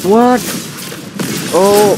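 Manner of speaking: sharp startled high "What?"; surprised. Real, not acted. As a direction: caught off guard, shoot it up high. Sudden surprise in the fight.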